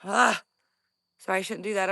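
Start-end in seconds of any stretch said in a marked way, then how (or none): 0.0-0.4 scared gasp. Real, not acted. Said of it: "I'm breathing heavy when I'm scared".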